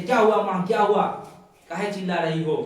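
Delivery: high, loud imitation of a startled daughter; alarmed. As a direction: call out in acted alarm to mother. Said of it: "डर हो जाता है बेचारी". (घबराई बेटी का ऊँचा अभिनय)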